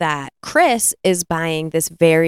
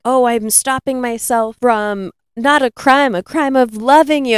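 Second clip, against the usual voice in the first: raised, louder bumbling proclamation; mock declaration; 5 semitones higher, 4 dB louder than usual. Suitor muddled by police radio signals, mock proclamation. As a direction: declare it like a foolish would-be dispatcher. Imitating clumsy radio-style love speech.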